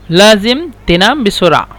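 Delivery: measured, with the words set apart. Shown as a demonstration. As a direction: say it word by word for learners. Teacher repeats phrase slowly for learners.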